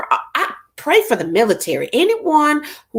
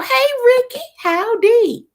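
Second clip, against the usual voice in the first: bright greeting; 14 semitones higher, 3 dB louder, slower than usual. Real, not acted. Greeting a viewer.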